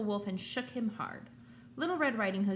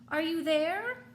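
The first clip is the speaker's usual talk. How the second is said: higher and louder, calling through the open door; 8 semitones higher, 5 dB louder, slower than usual. Acted. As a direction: call out, unsure if anyone's home. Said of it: "she called".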